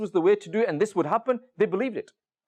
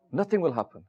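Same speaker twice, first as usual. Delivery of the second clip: low, understated retold reply; settled certainty, pitched down; calm reassurance; 4 semitones lower than usual. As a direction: repeat it evenly, quite untroubled. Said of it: "why are you so calm".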